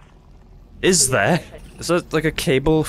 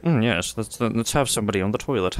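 posh British voice; 2 semitones lower, 4 dB quieter than usual. Retold or imitated. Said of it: "don't know why he's British".

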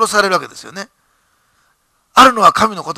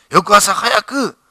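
slow emphasis; 3 semitones higher, much slower than usual. Acted. Stressing obedience timing.

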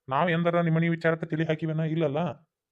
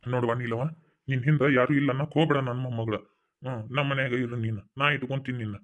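tender reassurance; 4 semitones lower than usual. Acted. Grandfather comforting orphaned girl.

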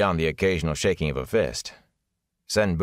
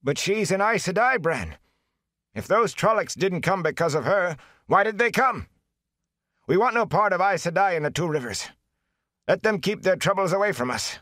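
pleading thatcher; 13 semitones higher than usual. A narrator's reading. Thatcher pleads against the Aes Sedai.

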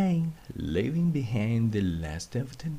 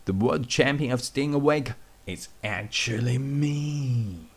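calling out; 5 semitones higher than usual. Acted. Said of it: "Thunderbolt is calling out".

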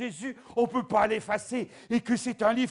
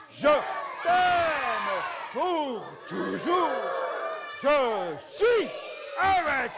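at full volume; 4 semitones higher, much slower than usual. Shown as a demonstration. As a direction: fill the valley with it. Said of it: "mettre le maximum de volume".

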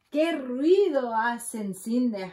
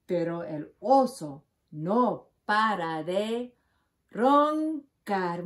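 bold refrain; 4 dB louder than usual. Shown as a demonstration. Reader leading the children in the refrain, loud and bold. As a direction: call out the refrain so the kids join in. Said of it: "Vamos a leer este juntos".

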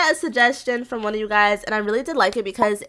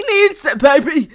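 playful demand; 3 semitones higher, 6 dB louder than usual. Real, not acted.

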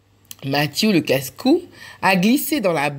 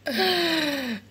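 higher, giggling through the words; laughing; 9 semitones higher, 6 dB quieter than usual. Acted. Reading to children, laughing along with the three friends. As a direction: let the giggle take over the line. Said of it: "et elles rient".

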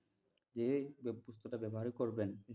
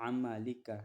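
slow recitation; slower than usual. Shown as a demonstration. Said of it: "এই শব্দটা এখানে".

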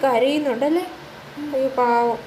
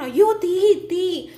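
a mild frightened cry of fire, higher; 4 semitones higher, much slower than usual. Acted. Animals screaming about the fire, mildly frightened. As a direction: call out in fear. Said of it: "നിലവിളിക്കണം".

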